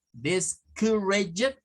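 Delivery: slow, drawn-out "Discouraged" with schwas; two-schwa pronunciation. Shown as a demonstration. Teacher shows students how to pronounce it, slow schwa "Discouraged". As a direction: say "Discouraged" very slowly, weak vowels as schwa. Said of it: "¿Cómo pronunciaríamos eso?".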